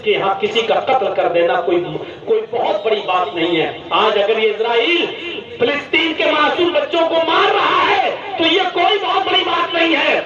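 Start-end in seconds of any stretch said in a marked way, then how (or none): 5.6-10.2 raised, higher preaching voice; fiery sermon peak; preaching shout. Real, not acted. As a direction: drive it home to the crowd.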